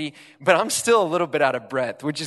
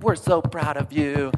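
pitying praise. Retold or imitated. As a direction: imitate a crowd cheering on the last finisher. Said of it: "they're pity clapping me".

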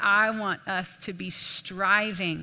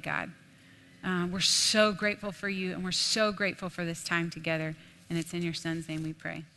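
prayer. Real, not acted. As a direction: pray over the congregation, fading. Closing prayer.

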